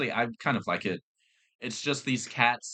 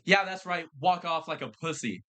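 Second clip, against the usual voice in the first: mock jeering taunt, pitched higher; retold taunt; 6 semitones higher than usual. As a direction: goad him as he walks off. Retold taunt at departing worker.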